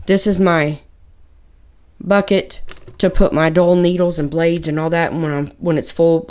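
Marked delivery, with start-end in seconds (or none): none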